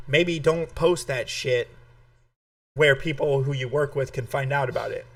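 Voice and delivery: talking around ice; words round a mouthful of ice. Real, not acted. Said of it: "got ice in my mouth again".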